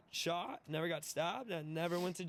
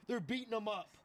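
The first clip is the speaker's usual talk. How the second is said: higher-pitched mock-drunk alarm; hammered self, retold; 6 semitones higher than usual. Drunk man fearing for the girls downstairs, mock alarm. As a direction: lightly play a drunk raising the alarm. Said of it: "'cause I'm hammered now".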